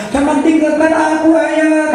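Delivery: lightly hammed sinetron daughter; soap opera plea. Preacher parodying a sinetron daughter begging her father, lightly. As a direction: plead like a TV drama, only a touch. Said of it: "kalau di sinetron".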